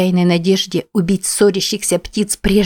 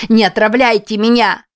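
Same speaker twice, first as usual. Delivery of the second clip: higher and louder terrified cry; испуганный крик; panicked screaming; 4 semitones higher, 4 dB louder than usual. Acted. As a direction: scream as if someone is poisoning you. Heroine hallucinating, fears poisoning.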